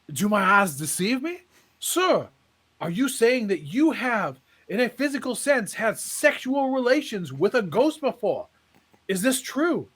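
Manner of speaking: a touch of mock disbelief; astonished preacher. Preacher to the man at the back, in mock amazement.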